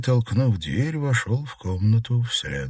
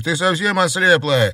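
angry pleading; 9 semitones higher, 5 dB louder than usual. Acted. Brother angrily warns sister.

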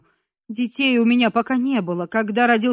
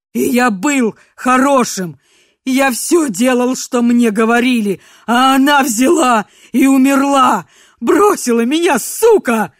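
anguished yelling; 3 semitones higher, 9 dB louder than usual. Acted. Grief-fueled rant.

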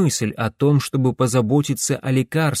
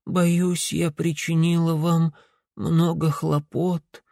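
put-on frail, slow old woman's voice; a dying old woman, barely speaking; weak old woman; 4 semitones higher, slower than usual. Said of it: "сказала старушка слабым голосом".

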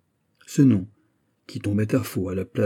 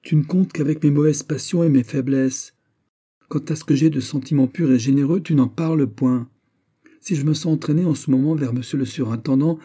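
higher, louder, impassioned plea; rallying all her strength; 6 semitones higher, 4 dB louder than usual. Acted. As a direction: fight back with everything she has. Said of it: "en rassemblant toutes ses forces". (elle rassemble toutes ses forces, plus fort et plus aigu)

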